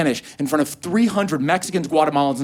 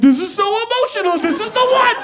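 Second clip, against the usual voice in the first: mock excitement; 4 dB louder than usual.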